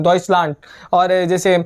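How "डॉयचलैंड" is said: डॉयचलैंड said as doyts-land, the German way; German pronunciation. Shown as a demonstration. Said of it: "German". (German उच्चारण में डॉयचलैंड)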